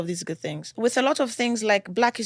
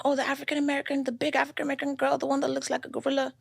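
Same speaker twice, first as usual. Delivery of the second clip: mocking classmate; 4 semitones higher, 3 dB quieter than usual. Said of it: "And he was like".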